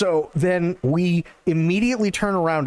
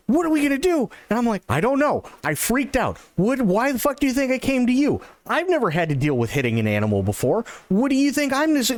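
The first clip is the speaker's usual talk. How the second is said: high, fast, frantic babble; panicked ranting; 11 semitones higher, faster than usual. Retold or imitated. Panicking in the car with a dead owl, frantic high rant. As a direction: spill it out in a frantic rush, pitched way up.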